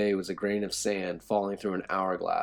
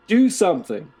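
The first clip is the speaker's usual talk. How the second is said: high, loud shout at the guard; 11 semitones higher, 11 dB louder than usual. A narrator's reading. Prisoners shouting at the frozen guard, loud. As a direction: yell at him to act. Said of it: "We echoed that sentiment loudly".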